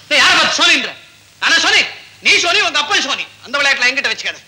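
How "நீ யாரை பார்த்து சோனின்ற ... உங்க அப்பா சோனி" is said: mock indignant. Mock offense at misheard word.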